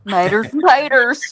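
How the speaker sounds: slow drawn "Maters and taters" with a flapped t, like "may-ders and tay-ders"; Southern maters and taters. Retold or imitated. Friend mimics Patricia's Southern pronunciation of "Maters and taters". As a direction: copy how Patricia says "Maters and taters", slowly. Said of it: "the way she says maters and taters".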